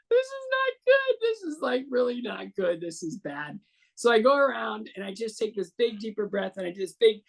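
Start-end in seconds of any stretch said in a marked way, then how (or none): 0.1-3.6 mock panic. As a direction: let the alarm spike, then drop. Retold panic on tired legs.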